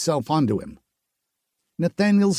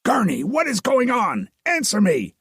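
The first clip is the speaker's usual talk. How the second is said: raised, urgent voice calling out to a silent friend; worried soldier calling his friend; 8 semitones higher than usual. A narrator's reading. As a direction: call out to him, worried and demanding. Nathaniel calling to silent Gurney.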